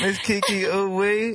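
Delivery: Miss Kiki Ooh-wee slowed, rising on Ooh-wee; trying the name. Shown as a demonstration. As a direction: carefully try out Ooh-wee, slowly. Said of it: "That's how you gotta say it".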